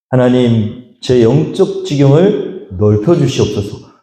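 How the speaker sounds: slow, earnest petition to God; slow solemn prayer. Acted. Isaac praying for wider spiritual borders, slow and sincere. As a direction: pray it slowly with reverence. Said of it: "라고".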